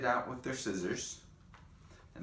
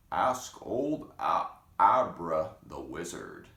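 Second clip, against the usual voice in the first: slow, louder frog voice; frogs' voice; 2 semitones lower, 7 dB louder, slower than usual. Acted. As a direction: call it out like a chorus of frogs. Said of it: "they said".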